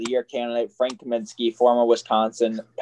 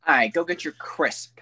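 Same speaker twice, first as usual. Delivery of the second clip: put-on British accent. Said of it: "say it in a British accent".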